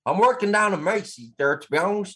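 hammed-up attempt at a New York accent. Shown as a demonstration. Co-host showing off accents for host, shaky try at New York accent. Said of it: "Give us your New York accent".

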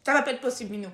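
put-on high, loud, quavering old lady; old woman voice. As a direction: scold like a fussy grandmother. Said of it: "t'as vu cette voix de vieille?".

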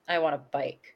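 low, flat, blunt demand; flat deadpan child. Retold or imitated. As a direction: say it like a sullen kid. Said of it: "And she goes".

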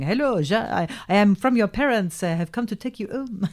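put-on halting French accent greeting. Stranger greets the daughter with champagne, mock French accent. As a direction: imitate a French stranger at the door. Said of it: "He's brilliant. I thought he was really French".

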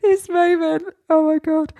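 excited. Real, not acted. Laughing recalling embarrassment.

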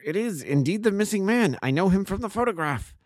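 high-pitched, amazed recognition; astonished cry. A narrator's reading. Inspector recognising the missing man, astonished. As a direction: pitch it well up in astonishment, volume ordinary. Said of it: "cried the inspector".

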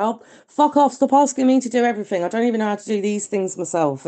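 mildly acted cry of having had enough; exasperated outburst. Caller voicing being fed up with demands, exasperated. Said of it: "sometimes you just wanna go".

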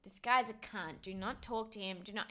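softly voiced private warning; retold whisper. Retelling a warning to a friend at a bar, hushed. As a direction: mimic a discreet word in the ear. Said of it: "I whispered in her ear".

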